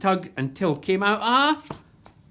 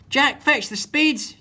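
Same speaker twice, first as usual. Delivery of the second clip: slow, loud, high barked pirate order; captain shouting slowly at Jack; yelled order; 9 semitones higher, 6 dB louder, slower than usual. A narrator's reading. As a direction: bellow at the cabin boy. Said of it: "yelled Captain".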